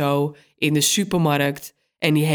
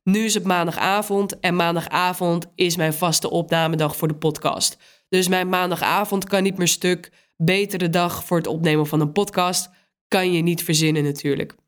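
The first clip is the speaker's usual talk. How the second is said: stuffy voice from a cold. Real, not acted. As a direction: talk through a blocked nose. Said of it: "Sorry als ik een beetje bedompt klink".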